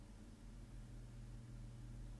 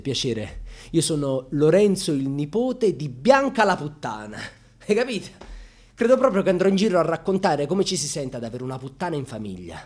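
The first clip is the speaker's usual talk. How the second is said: defiant taunt; 2 semitones higher, 6 dB louder than usual. Acted. Defiant self-introduction as grandson.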